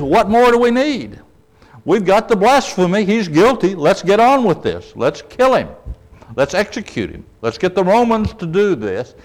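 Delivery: high, pressing accusers' voice; urgent mob. Retold or imitated. Accusers call for Jesus to be executed, urgent.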